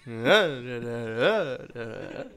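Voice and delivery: mock up-and-down wordless hum; wavering inflection noise. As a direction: imitate a swooping inflection without words. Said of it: "Your inflection's kind of".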